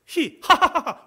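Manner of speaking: bright burst of laughter; high laughing cry of joy; demo laugh. Shown as a demonstration. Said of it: "웃어야죠".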